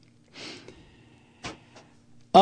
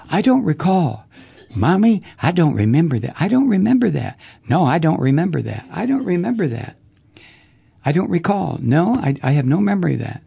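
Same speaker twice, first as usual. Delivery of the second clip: mock Reagan; faster than usual. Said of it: "What did Reagan say when he was deposed?".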